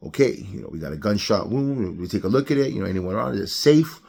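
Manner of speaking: matter-of-fact, unhurried medic; calm. Acted. Medic arriving at a shooting scene, calm. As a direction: take charge without any alarm. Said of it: "They calmly go to the".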